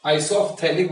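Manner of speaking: "isophthallic" with a clear f before th; PH sounded. Shown as a demonstration. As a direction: say "isophthallic" as eye-soff-THAL-ik. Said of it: "अब पीएच silent नहीं है". ("isophthallic" में फ़ की आवाज़ साफ़)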